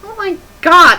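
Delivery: loud, high cry of disbelief; loud shocked exclamation; appalled outburst. Real, not acted. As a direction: gasp it out in horror. Reacts to the misspelling.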